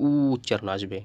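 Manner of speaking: "উ" held as a rounded oo; u-vowel demonstration. Shown as a demonstration. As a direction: hold the "উ" before going on. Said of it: "উকারের মতো উচ্চারণ হবে".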